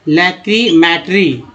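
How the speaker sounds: लैक्रीमेटरी read slowly as lek-ri-meh-tri; careful teacher reading of लैक्रीमेटरी; sounded out word. Shown as a demonstration. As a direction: spell out लैक्रीमेटरी syllable by syllable. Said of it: "देखिए लैक्री".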